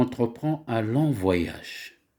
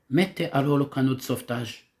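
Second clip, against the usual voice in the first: faster, urgent command with "Mettez" hit first; brisk order; 2 semitones higher, faster than usual. Shown as a demonstration. Captain urging sailors to launch the lifeboat, quick and pressing. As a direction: rush the order out like a captain in an emergency. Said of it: "c'est le capitaine qui donne un ordre".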